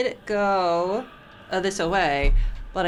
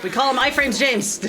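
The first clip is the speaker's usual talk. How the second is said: high, bright teasing call; playful nickname; 6 semitones higher, 4 dB louder than usual. Acted. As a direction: sell the nickname with glee. Coins a jokey nickname.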